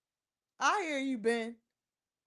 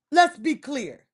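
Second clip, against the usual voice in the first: firmer, louder; 2 semitones lower, 4 dB louder, slower than usual. Real, not acted.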